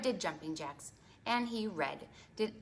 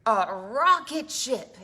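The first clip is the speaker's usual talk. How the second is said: puppet voice; 9 dB louder, slower than usual. Acted. Librarian voicing puppet Fred's answer.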